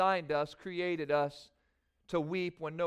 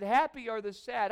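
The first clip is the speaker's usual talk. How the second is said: higher, doubting "Happy are the sad"; puzzled mishearing; 5 semitones higher, 4 dB louder than usual. Retold or imitated. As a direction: say it as if unsure you heard right. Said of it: "it just sounded like he said".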